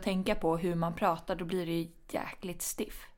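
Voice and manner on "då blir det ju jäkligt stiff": whispering stiff; hushed aside; whispered. Real, not acted. Aside about stiff talking.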